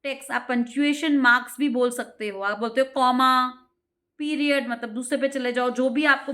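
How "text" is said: slowly read, word by word; dictating slowly; slow read-aloud. Shown as a demonstration. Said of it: "reading instructions aloud".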